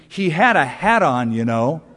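a touch of indignant grandmother, hands on hips; lightly voiced peeved grandmother; mildly sharp complaint. Grandmother to God, mildly sharp complaint about the hat. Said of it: "and said sharply".

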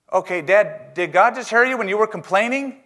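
innocent daughter question. Retold or imitated. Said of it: "his daughter, and says".

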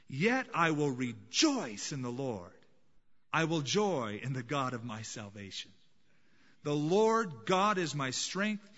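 slow, weighty reading of the verse; fervent scripture reading. Acted. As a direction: read it as a declaration of faith.

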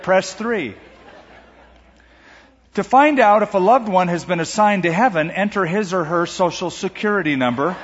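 lightly voiced automated hotline recording; phone menu voice. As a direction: read it like a cheerful answering machine. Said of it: "It might sound something like this".

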